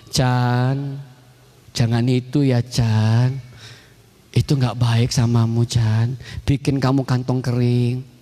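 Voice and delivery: low, slow, patient admonishing; lightly voiced parent. Parent warns Chan off a bad choice, low and slow. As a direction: caution a child gently, slow and low. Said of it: "orang tua".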